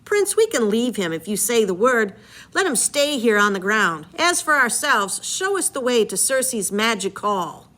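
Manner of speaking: a hint of a pleading sailor; mildly voiced crewman asking the prince; lightly voiced crewman. Crew member quoted in reading.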